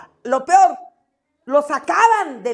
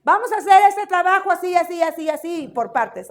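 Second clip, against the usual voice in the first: teacher explaining; 5 semitones higher, 3 dB louder than usual. Retold or imitated. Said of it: "Yo les explico a mis alumnos".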